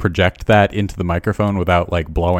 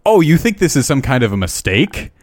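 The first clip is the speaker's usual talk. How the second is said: louder, higher mocking drill yell; drill sergeant yell; 7 semitones higher, 5 dB louder than usual. Lance corporal mocks a recruit who thinks it's a mistake, louder and higher. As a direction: sneer and shout like a drill sergeant.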